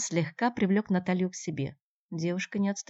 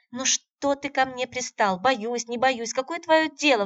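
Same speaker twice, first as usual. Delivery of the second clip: much higher, louder angry outburst; flaring up; 8 semitones higher, 5 dB louder, slower than usual. A narrator's reading. Natalya flares up at pushy Andrey. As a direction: snap at him, losing patience. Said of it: "вспылила Наталья".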